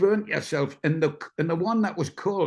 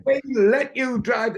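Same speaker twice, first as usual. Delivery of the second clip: slow, high, indignant retort; indignant boss; 9 semitones higher, 4 dB louder than usual. Retold or imitated. Boss telling the Le Mans winner off, slow and indignant. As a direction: spell it out with contempt.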